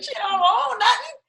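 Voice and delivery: high, blunt dismissal; a hint of an unimpressed dad; imitating father. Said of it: "I was like".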